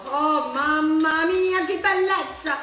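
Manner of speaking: an Italian cook's joyful oh mamma mia; delighted Italian exclamation. Pretend. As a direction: exclaim it in Italian, savoring the food. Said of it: "In Italian means".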